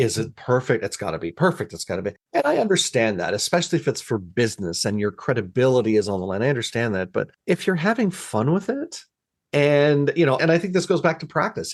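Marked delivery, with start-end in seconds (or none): 0.0-2.1 put-on anxious, worried, perfectionist fretting and fussing. Describing how people fret over their work: imitating anxious people. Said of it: "they get so anxious and it's like".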